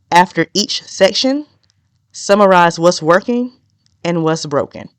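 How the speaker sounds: measured dictation with pauses between phrases; slow dictation. Shown as a demonstration. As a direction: read it out slowly enough to follow. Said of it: "I'm gonna try to say this slow".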